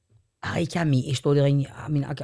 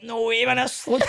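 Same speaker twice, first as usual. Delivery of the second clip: starstruck excitement; 10 semitones higher than usual. Retold or imitated. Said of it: "I was like".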